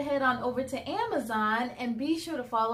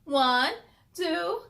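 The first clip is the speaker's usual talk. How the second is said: goodnight cheer; 8 semitones higher than usual. Acted. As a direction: build the count to a bright cheer. Counting to goodnight call.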